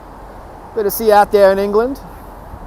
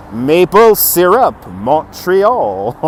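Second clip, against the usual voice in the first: mock French Canadian; much slower than usual. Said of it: "It sounds more French Canadian".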